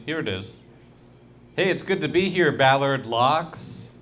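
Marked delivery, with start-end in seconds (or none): 1.6-3.9 hammed-up comic opener. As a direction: greet the room like a hack stand-up. Repeats mock comedian opener.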